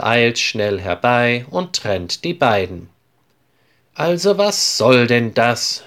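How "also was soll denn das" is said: a touch of stern teacher scolding; understated cross question to quarrelling boys; teacher breaking up two boys' fight, mildly cross; mild annoyance. Acted. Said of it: "fragt sie verärgert".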